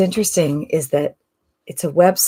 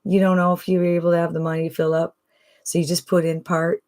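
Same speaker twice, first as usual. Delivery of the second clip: easy, calm Southern accent, lightly voiced; Jimmy's Southern drawl; 3 semitones higher than usual. Host imitating his client Jimmy, a mild calm Southern accent. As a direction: ease into a sweet-guy Southern accent. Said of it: "Jimmy kinda talks like this".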